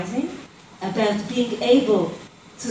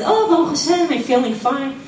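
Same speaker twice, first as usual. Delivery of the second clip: chirpy cheerful reply; 4 semitones higher, 4 dB louder than usual. Retold or imitated. Man answering rabbi cheerfully.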